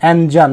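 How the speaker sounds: इंजन with a "jan" second syllable; precise engine pronunciation. Shown as a demonstration. Teacher repeating the exact pronunciation, इंजन said "en-jan". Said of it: "इसका सटीक pronunciation इंजन है".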